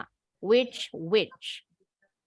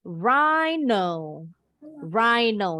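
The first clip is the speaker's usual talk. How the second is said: rhino with RHI lifted and drawn out; stress on first syllable; much slower than usual. Shown as a demonstration. Teacher showing the dictionary mark, rhino stressed on first syllable. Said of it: "Jadi di awal kalau ada tanda".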